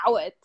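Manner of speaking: "Awet" said as Ow-et, short and falling; native pronunciation. Shown as a demonstration. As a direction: demonstrate "Awet" starting with an "ow" sound. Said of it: "the way you say it is".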